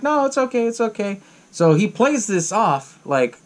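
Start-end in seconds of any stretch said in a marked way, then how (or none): 0.0-1.2 retold reassurance. Retold man reassures the crying woman.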